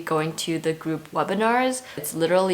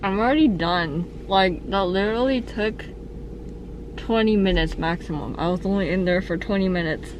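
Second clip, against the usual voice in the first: speaking through a numb mouth after a tooth extraction; numb from the dentist. Real, not acted. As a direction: talk with a numb face, words a bit mushy. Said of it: "my face is numb".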